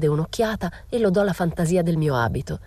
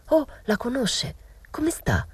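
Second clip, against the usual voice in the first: breathy unvoiced whisper, slower; hushed whisper; 9 semitones higher, slower than usual. A narrator's reading. Narrator whispering eagerly to the old woman, hushed whisper. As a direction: whisper it urgently, keeping it secret.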